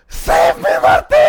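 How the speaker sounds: loud, breathless plea for rescue; drowning guy crying out for help; mock pleading cry. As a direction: beg to be saved, half joking. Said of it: "looks up at me and goes".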